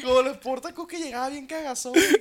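words through laughter; laughing. Real, not acted. Recalling the kids' show, laughing while talking.

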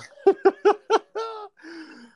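loud, high burst of laughter; hearty laugh. Real, not acted. Host joking with his buddy, loud high laughing. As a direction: crack up for a couple of seconds. Host cracks up mid-chat.

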